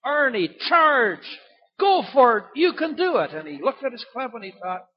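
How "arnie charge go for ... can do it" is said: high, loud rallying yell from the gallery; loud, high shout of encouragement; shouted cheer from the crowd. Retold or imitated. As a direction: call it out like a fan urging him on. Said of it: "suddenly shouted out".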